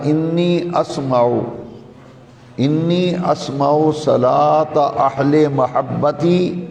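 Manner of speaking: slow, drawn-out Arabic recitation; hadith recitation. Real, not acted. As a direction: stretch the long vowels, measured and deliberate.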